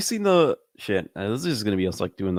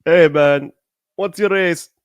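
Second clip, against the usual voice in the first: mock loud question; 6 semitones higher, 6 dB louder, slower than usual. Mock question to the white guy.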